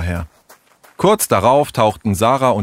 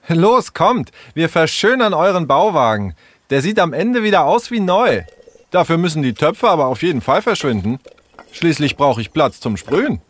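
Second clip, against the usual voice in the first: put-on high, lively, bossy girl; bossy girl Sarah; 8 semitones higher than usual. Sarah rallying the gang to spray the wagon, bossy. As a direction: take charge, high and eager. Figure Sarah in story dialogue.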